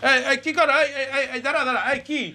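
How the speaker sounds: high-pitched, alarmed repeated "hey"; startled protest. Acted. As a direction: stop them in sudden alarm, voice jumping up. (চমকে উঠে উঁচু গলায় বাধা)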